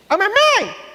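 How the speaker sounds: put-on high child's call across a silent church; high little-boy yell for mom; little boy shouting. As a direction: squeal "mamãe" like a small kid. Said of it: "ele só gritava".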